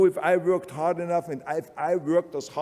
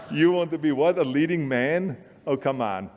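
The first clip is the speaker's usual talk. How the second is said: incredulous agent. Retold or imitated. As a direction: scoff at the very idea. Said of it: "their reaction was".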